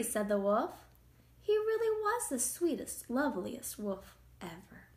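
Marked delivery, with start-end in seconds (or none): none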